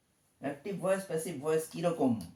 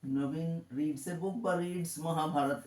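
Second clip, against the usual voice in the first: slow dictation; much slower than usual. Shown as a demonstration. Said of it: "এরকম আমি লিখতে পারি".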